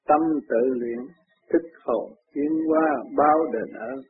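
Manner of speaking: slow, drawn-out verse recitation; ngâm kệ. A narrator's reading. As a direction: recite it as a measured Buddhist gatha. Ngâm bài kệ. (ngâm kệ chậm rãi, kéo dài chữ)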